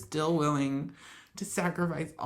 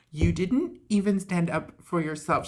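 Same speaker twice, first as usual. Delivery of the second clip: quoted rebuke; 4 dB louder than usual. Retold or imitated. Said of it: "yeah, like".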